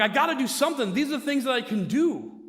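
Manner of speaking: acting out a worked-up husband; mock-urgent self-justification; retold agitation. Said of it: "I get all angry and excited".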